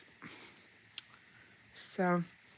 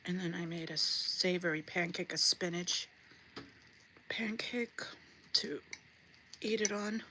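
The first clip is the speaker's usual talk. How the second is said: chewing between phrases; chewing while talking. Real, not acted. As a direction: talk through a bite. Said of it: "won't be eating in your ear".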